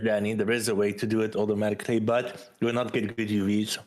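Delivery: talking through a mouthful of cookie; chewing while talking. Real, not acted. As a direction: speak while chewing a bite. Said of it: "sorry if you hear me eat".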